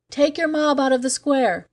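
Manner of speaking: high, commanding shout at the mob. Acted. Cargill shouting at the mob in their jargon, high commanding shout. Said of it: "I shouted in the jargon".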